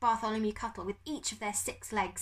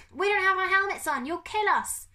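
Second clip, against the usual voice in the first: high, very loud protest; panicked scream; 12 semitones higher, 8 dB louder than usual. Acted. Craven without his helmet, screaming in panic. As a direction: scream it in alarm. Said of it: "screamed Craven from the floor".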